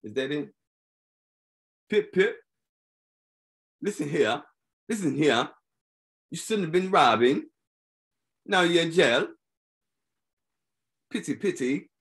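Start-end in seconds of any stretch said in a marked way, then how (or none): 1.9-2.4 higher, hammed-up British "Pip, pip"; a cartoon English gent, lifted high; mock British accent. Trying out the accent again for the viewers, in a mock British accent. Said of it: "I can get a U K accent". 3.8-11.9 mock British accent. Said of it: "I can get a U K accent".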